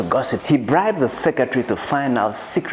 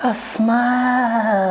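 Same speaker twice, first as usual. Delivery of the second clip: amused; 11 semitones higher, much slower than usual. Acted. Savouring a small victory.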